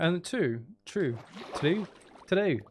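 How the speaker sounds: put-on playful Irish accent sliding into Scottish; wobbly Scottish-leaning accent attempt; Irish attempt turning Scottish. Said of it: "That's going more Scottish".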